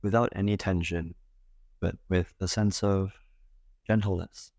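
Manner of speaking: calm meditation guide with long pauses between phrases; guided meditation. Acted. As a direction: gently guide them into breath awareness, leaving space. Leads a guided breath meditation.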